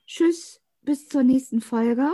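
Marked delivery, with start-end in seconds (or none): 0.1-1.1 geflüstert. Real, not acted. Verabschiedung am Ende der Aufnahme.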